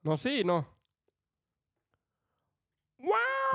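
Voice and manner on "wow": very high, squealing wow; amazed wow. Pretend. Seeing the bikini photos, an amazed high-pitched wow. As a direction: squeal it like you can't believe your eyes. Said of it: "Mä reagoin asian kuuluvalla tavalla".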